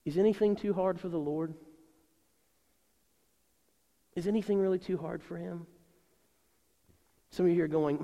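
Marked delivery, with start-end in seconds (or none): 0.0-5.7 gently posed, sincere question; very gentle. Real, not acted. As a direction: ask it tenderly, leaving space after. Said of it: "say to you very gently tonight".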